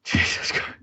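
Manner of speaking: breathless, airy exclamation; panting after heavy lifting; out of breath. Real, not acted. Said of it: "I'm literally out of breath".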